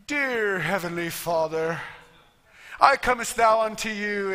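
lightly pompous churchy voice, slow start; a hint of stuffy pious tone; mock religious prayer. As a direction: send up an overly formal prayer. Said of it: "it has to sound all religious".

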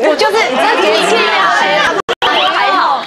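slow, high, drawn-out nonchalance; mock indifference. Acting unbothered about the new name. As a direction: stretch it out, playing it cool.

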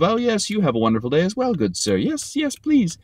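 mock posh goodbye. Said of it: "goodbye spiral of".

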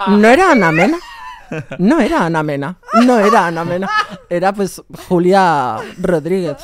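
loud laughing disbelief; laughing punchline. Real, not acted. Telling friends her mistake, loud laughing repeat. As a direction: repeat the reveal through laughter. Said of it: "punchline laughing repeat".

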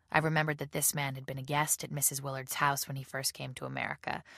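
ordinary delivery, nothing marked

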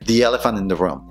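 first "The" as "dee" before "elephant"; "thee" before vowel. Shown as a demonstration. Teacher giving an example before a vowel, "thee" pronunciation. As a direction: link "The elephant" with an ee. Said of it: "suena di".

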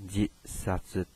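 "ji sa zi" as jis-satsu with short i; shortened JI form. Shown as a demonstration. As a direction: say ji, not ju, before the held s in "ji sa zi". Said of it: "也就是说念成".

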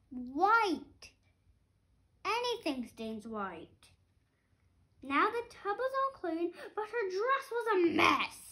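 lively storybook read-aloud; reading to children. A narrator's reading. Parent reading a picture book to a child, lively. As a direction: read it like a bedtime book for kids.

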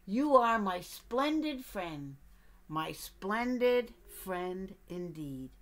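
slow, tender bear words. Acted. Bear telling the duck he is a splendid friend, slow. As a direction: savour each word slowly.

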